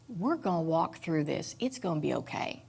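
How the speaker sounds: put-on soft, tender promise to a frightened child; quiet reassurance with an arm around her; comforting. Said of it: "comfort the scared little Becky".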